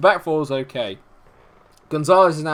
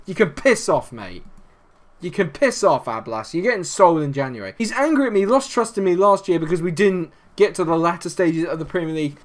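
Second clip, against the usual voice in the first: heated, raised-pitch telling-off, dropping at the ends; genuinely angry; 4 semitones higher than usual. Real, not acted. Manager telling his striker he's getting sold, angry. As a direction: send the player packing in real anger. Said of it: "I am genuinely angry".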